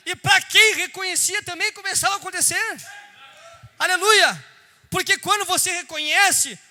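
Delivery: loud, high preacher's appeal; preaching at full force. Acted. Preacher urging the church to claim their family, loud and high. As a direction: press the claim home to every listener.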